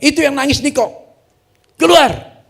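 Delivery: loud, high shouted command; retold pulpit shout, full force; calling out. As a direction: shout to summon someone from a crowd. Retold shout at hidden Niko.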